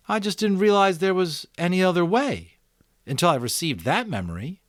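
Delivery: put-on a boy thinking aloud, picking up speed; eager boy Jonas. Jonas explains.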